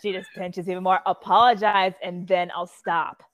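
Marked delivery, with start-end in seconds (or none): 1.1-3.2 stern demand. Acted. Demanding apology.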